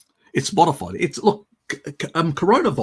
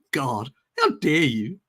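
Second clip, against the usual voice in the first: Greta impersonation; 2 semitones higher than usual. Retold or imitated. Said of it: "my Greta impersonation".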